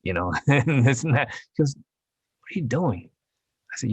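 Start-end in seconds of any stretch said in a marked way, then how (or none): 1.8-3.1 mock-baffled, high and slow; higher, stretched-out mock disbelief; baffled reaction. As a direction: imitate a puzzled casting person, drawn out. Casting person baffled by accent.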